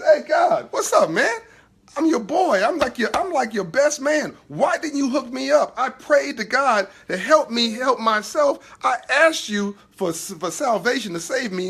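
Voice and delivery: high, loud, laughing complaint to God; a wronged buddy shouting up at heaven, half laughing; indignant drowned man. Acted.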